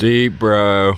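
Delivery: loud. Real, not acted. Louder echo of the joke.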